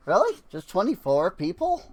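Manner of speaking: surprised. Real, not acted. Surprised by low citizen count.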